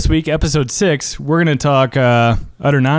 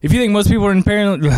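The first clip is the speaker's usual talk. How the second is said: rapid-fire, higher-pitched patter; fastest talking; 6 semitones higher, faster than usual. Acted. Player retrying the fast talker card, rapid-fire. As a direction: rattle it off as fast as possible. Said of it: "I'll try to do my fastest here".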